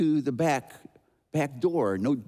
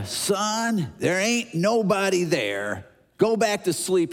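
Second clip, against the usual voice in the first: slow, drawn-out dad voice, slightly raised; exasperated father; 4 semitones higher, slower than usual. Acted. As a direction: lightly play a dad dismissing a child's fears. Annoyed dad sends boy back.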